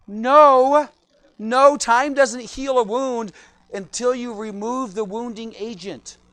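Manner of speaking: loud, slow "No, no"; emphatic no. Acted. Preacher loudly correcting the saying that time heals all wounds. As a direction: slam down the myth, drawn out. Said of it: "emphatic correction".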